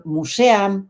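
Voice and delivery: "museum" said as mu-se-am; mispronounced museum. Shown as a demonstration. Teacher imitating people who say it badly, mispronounced museum. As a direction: say "museum" with Spanish vowels, mu-se-am. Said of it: "no me sale mal dicho".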